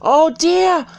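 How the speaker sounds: squeaky high, loud panicky rabbit; fretful White Rabbit. A narrator's reading. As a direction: squeal it like a frantic little rabbit. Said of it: "hear the rabbit say to itself".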